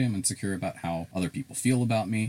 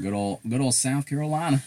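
Southern twang on South Carolina; southern accent; 5 semitones higher than usual. Shown as a demonstration. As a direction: lean into a good-old Southern accent. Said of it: "my little southern accent comes out".

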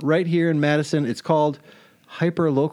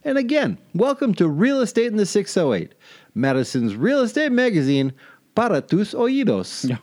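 announcer voice; 5 semitones higher than usual. Acted. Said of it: "I like to try out my announcer voice".

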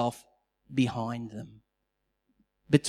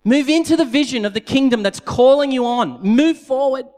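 loud, high commanding voice; the Lord commanding the people, loud; firm command; 8 semitones higher, 7 dB louder than usual. Retold or imitated. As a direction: order them on, full force. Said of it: "the Lord said".

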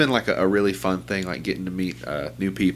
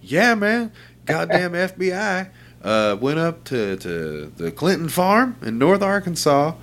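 much higher conspiracy-guy voice, slowing down; excited coworker; 8 semitones higher, slower than usual. Retold or imitated. Coworker insists on the FBI story, high and slow. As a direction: sell the wild story like gospel. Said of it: "He was like".

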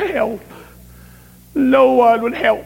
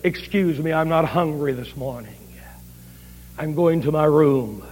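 tearful; 8 semitones lower, 6 dB quieter than usual. Retold or imitated. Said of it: "tears started running down her cheeks".

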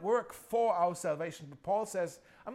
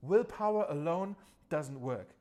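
slow and deliberate, word by word; slow for note-taking; 3 semitones lower than usual. Shown as a demonstration. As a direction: give them time to write it down. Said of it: "Maybe you want to write this down".

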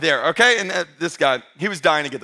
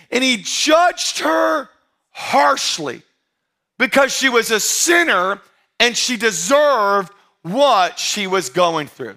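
mock harsh Bible reading; 3 semitones higher, slower than usual. Pastor teasing the congregation with a fake verse, mock stern. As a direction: ham up a stern judging verse, slowly. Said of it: "That's not in the Bible".

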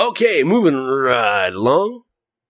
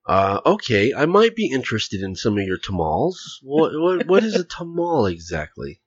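lightly voiced prim white customer; mildly stiff, careful "tamal exactly"; whitest voice. Customer asks the vendor in a mild white voice. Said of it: "the whitest voice you can muster".

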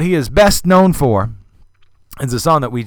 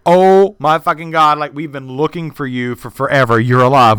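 astonished; 3 semitones higher, 4 dB louder than usual. Retold or imitated. Quint Davis finds Fess alive, loud with amazement. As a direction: burst out in disbelief. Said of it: "jumped back into his body and said".

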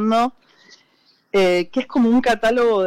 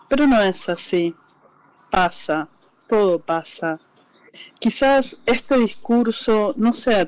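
poem reading; 2 semitones lower than usual. Acted. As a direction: read it like a confession to a lost love. Recita su poema en vivo. (lectura de poema, pausada y sentida)

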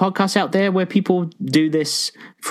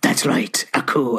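lightly voiced, low hero reply; a hint of a husky, triumphant hero; cool hero; 3 semitones lower than usual. Jack answering the villain he tricked, coolly triumphant.

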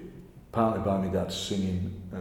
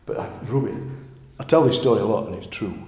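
ordinary talk, nothing marked

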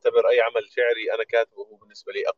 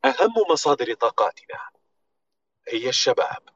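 slow, polished ad read; corporate voiceover; 3 semitones higher than usual. Shown as a demonstration. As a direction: deliver it like a brand commercial. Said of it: "لقيت أحد النصوص القديمة لأرامكو، فممكن أسمعكم".

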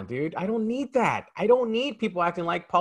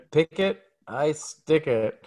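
slow tagline delivery; slower than usual. Retold or imitated. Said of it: "that was his tagline".

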